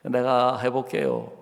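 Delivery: meek apology. Pretend. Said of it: "그러는 게 아니고".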